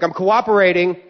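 retold impatient snap at a screener; exasperated retort. Retold quarrel with airport screeners.

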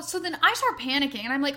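usual speaking voice

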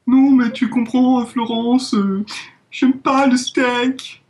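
high, slow, blasé Parisian drawl; Parisian French accent. Retold or imitated. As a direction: play a snobbish Parisian, drawn out. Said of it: "il peut nous faire le parisien".

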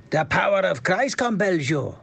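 a Swedish try that lands Welsh; accent drifting Welsh. Acted. Podcaster's second try at the Exorcist line, Welsh-tinged Swedish. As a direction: aim for Swedish, slide into Welsh. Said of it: "So it goes Welsh".

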